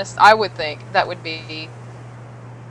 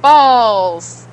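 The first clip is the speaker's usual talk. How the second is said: mock frustrated exclamation; 2 semitones higher, 9 dB louder than usual. Real, not acted. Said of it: "Now's better".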